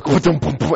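sputtering propeller engine noise; imitated engine sputter. Skydiver mimicking the plane starting up, engine sputter. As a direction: mimic an old engine cranking.

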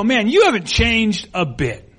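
friendly surprised compliment, slowly drawn out; complimentary. Acted. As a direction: greet an old classmate with mild amazement. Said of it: "sometimes that's a compliment".

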